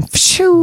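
high, whistly "phew" sound effect; drawn-out squirting noise; imitated squirt whoosh. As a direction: mimic a spurting whoosh. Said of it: "she's squirting".

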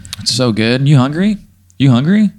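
taunting. Pretend. Eating turkey leg taunting hyphen.

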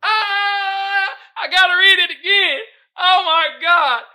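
high, loud words through crying laughter; laughing to tears. Real, not acted. Host choking with laughter before rereading the meme. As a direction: talk while wheezing with laughter. Laughing too hard to read.

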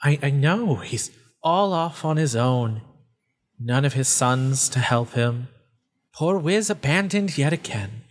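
mock pity turning to relish; lightly voiced creature savoring misery; gloating faceless voice. Voice relishes Wiz being abandoned, gloating.

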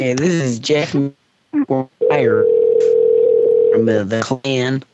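exaggerated Deep South character, words stretched; deep South accent. Shown as a demonstration. Prank caller introducing himself, deep South accent. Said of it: "You heard my accent".

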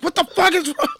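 high mock angry yell; pissed. Host imitating the angry dad in the shower scene, mock yell. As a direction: blow up at him. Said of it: "he's just pissed".

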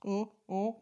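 slurping coffee while talking; sipping coffee mid-sentence; messy loud eating. Real, not acted. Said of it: "you're gonna hear me slurping away on coffee".

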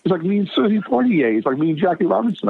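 high, excited gushing; starstruck. Retold or imitated. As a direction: rave about meeting a hero. Dad's starstruck gushing retold.

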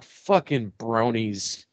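mock disgust. Disgusted aside while watching.

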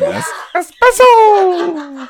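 slow high shouted anime cry; Pokemon name call. Pretend. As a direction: bellow it like a Pokemon. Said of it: "sounds like a Pokemon name".

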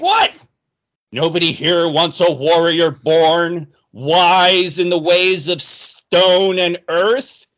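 lightly voiced proud dwarf, slow on the boast; a hint of an offended dwarf warrior; indignant dwarf. Dwarf arguing to join the party, mildly indignant and slow.

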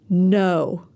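a short, firm "No.". Shown as a demonstration. Teacher leads the class in a firm no. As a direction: plant your feet and say "No.". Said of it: "Now say it with me".

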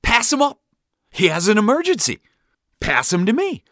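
high, urgent dad bark; frantic barked order. A narrator's reading. Dad demanding his son be passed forward, barking.

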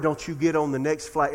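foreboding tone. Retold or imitated. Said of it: "in such a foreboding tone".

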